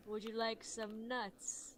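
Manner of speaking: high, soft, slow mock offer; pretend-innocent tempter; sly spy-tester. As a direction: offer it slowly, playing innocent. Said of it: "and they're like".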